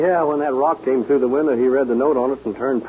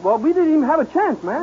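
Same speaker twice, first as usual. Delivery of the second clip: frightened; 11 semitones higher than usual. Acted. Scared henchman recounts the robbery.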